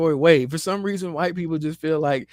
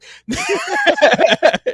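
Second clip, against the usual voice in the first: high, louder laughing fit; 9 dB louder than usual. Real, not acted. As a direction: keep laughing. Still cracking up.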